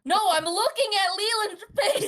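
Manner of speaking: laughing through the words. Real, not acted. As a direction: blurt it out while laughing. Laughing denial while teased.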